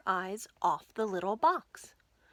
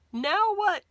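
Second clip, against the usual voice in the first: much higher, louder frantic cry; panicked question; 11 semitones higher, 7 dB louder than usual. Acted. George panicking to Martha on the board. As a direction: blurt it in panic.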